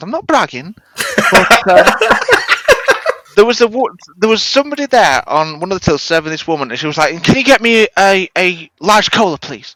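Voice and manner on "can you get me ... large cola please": very snippy, demanding voice. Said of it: "Really snippy voice".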